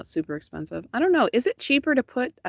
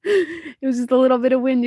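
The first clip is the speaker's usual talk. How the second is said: wind voice; 5 semitones higher, 3 dB louder than usual. Retold or imitated. Acting out the wind.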